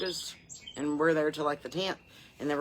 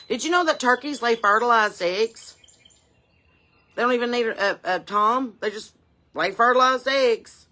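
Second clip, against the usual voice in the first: higher and louder in disbelief; incredulous, louder, and slowing on fertilized eggs; amazed; 6 semitones higher, 7 dB louder than usual. Real, not acted. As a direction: marvel at the weird fact. Amazed turkey fact.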